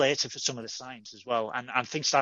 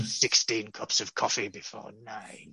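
Janeway impression; 4 semitones lower, 4 dB quieter than usual. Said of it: "Kate Mulgrew as Janeway".

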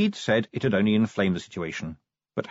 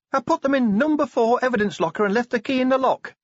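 put-on much higher, timid young dwarf voice; young dwarf Cheery; 4 dB louder, faster than usual. A narrator's reading. Cheery correcting Vimes about the stamps, timid and high. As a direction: correct the boss gently, pitched up high.

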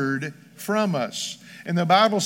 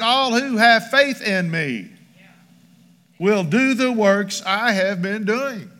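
slow, every word of "All who have faith in me" weighted; emphatic quote; 3 semitones higher, slower than usual. Shown as a demonstration. Scene: preacher repeats what Jesus said, emphatic. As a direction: press each word, slowly. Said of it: "it's also emphatic".

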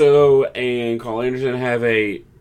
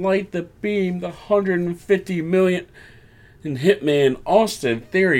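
mock ring announcer; 6 semitones higher than usual. Grayson announces to crowd.

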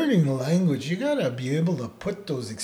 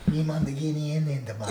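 imitating uncle; 4 dB quieter, faster than usual. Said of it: "it's the way he would say it".

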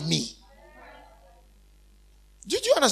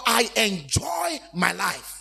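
declaration; much slower than usual. Acted. Preacher declares joy.

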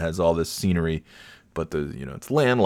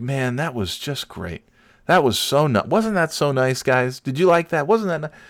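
higher-pitched retold delight, rising as it goes; gushing; 6 semitones higher than usual. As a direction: check eagerly that everyone enjoyed it. Dad gushing to family after trip.

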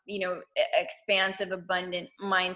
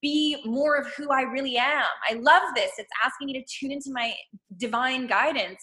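enthusiastic loving; 5 semitones higher than usual. Acted. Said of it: "it's like loving the tough stuff too".

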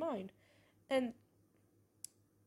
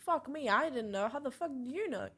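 acted-out disbelief, pitch jumping up; retold astonishment; 4 semitones higher, 5 dB louder than usual. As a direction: blurt it out like a mock-stunned reaction. Retelling her startled reaction.

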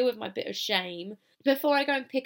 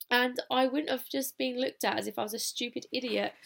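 amused self-scolding; 2 semitones higher than usual. Retold or imitated. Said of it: "giggling to myself and laughing and smiling".

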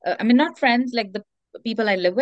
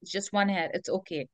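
self-soothing. Retold or imitated. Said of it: "you're just like".

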